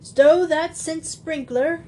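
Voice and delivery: a caught thief surrendering gruffly; husky burglar. Acted. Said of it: "a husky voice".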